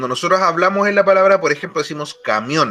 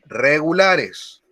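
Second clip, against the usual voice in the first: regulares drawn out slowly; slow stress on regulares; much slower than usual. Shown as a demonstration. Teacher slowing regulares so students can write. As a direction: stretch out regulares for dictation. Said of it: "al final de los verbos regulares".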